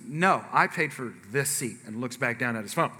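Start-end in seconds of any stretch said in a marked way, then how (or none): 0.1-1.8 slow, understated imitation of a firm refusal; acted matter-of-fact no; unblinking refusal. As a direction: refuse slowly, without a flicker. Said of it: "without blinking says".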